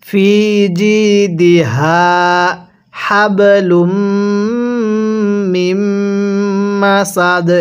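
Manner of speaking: slow, level chant, voiced h in জিদিহা, airy h in হাবলুম; careful model recitation. Shown as a demonstration. Teacher shows learners how to pronounce জিদিহা and হাবলুম, drawn-out recitation. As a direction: stretch জিদিহা and hold the m in হাবলুম. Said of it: "অবশ্যই আপনি এরকমভাবেই উচ্চারণ করবেন".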